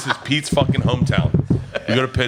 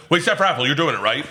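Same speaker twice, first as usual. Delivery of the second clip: higher-pitched imitation of eager staff; pushy prodding; 4 semitones higher than usual. Wait staff checking the comic will do it, pushy. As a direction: press him for a yes.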